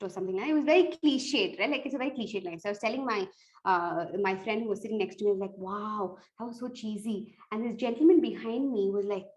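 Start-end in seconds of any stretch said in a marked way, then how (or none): 5.6-7.4 softly retold murmur to a neighbour; murmured audience aside; quiet aside. Quiet remark to friend beside speaker.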